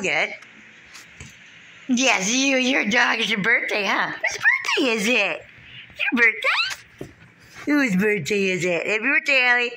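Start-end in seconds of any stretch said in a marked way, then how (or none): 1.9-9.7 pet talk. Real, not acted. Owner cooing happy birthday to her dog in high pet talk. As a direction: coo at the dog's birthday.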